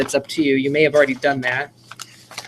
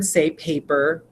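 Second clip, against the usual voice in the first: slow model; slower than usual. Shown as a demonstration. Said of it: "you would say the word".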